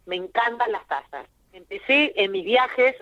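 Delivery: choked up mid-sentence, throat catching; choking on a drink. Real, not acted. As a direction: talk through a catch in the throat. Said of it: "ay, perdón, pero me atraganté".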